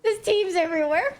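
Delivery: panicked high cries easing to relief; scared then relieved. Real, not acted. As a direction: yelp in fright, then sigh with relief. Enemy teams everywhere, then relief.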